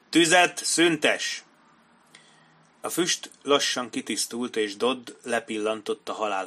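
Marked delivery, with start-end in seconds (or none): 0.1-1.4 loud, high order with long slow words; bellowed command. A narrator's reading. Colonel repeats the ceasefire to his men, bellowing. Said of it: "üvöltötte Dodd ezredes".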